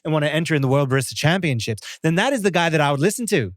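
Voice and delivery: lilting Irish chat, pitch going up and down; put-on Irish lilt; sing-songy Irish accent. Shown as a demonstration. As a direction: demonstrate an Irish accent with a singsong tune. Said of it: "go a little bit sing-songy when I do an Irish accent".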